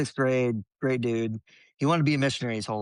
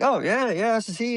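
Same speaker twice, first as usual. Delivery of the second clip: mock phone voice; 11 semitones higher than usual. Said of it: "I'm like".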